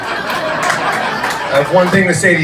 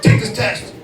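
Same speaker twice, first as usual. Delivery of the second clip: Mister T recruiter; 7 semitones higher than usual. Acted. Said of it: "my recruiter voice also sounds like Mister T".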